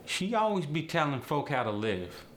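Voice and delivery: AAVE, lifted and forward. Shown as a demonstration. Teacher showing habitual "be", AAVE. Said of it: "The word be is used".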